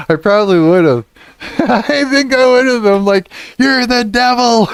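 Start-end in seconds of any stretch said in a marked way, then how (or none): 3.6-4.7 very high, loud mock accusation; yelling. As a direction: reenact screaming at the chatbot. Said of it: "I was yelling at it".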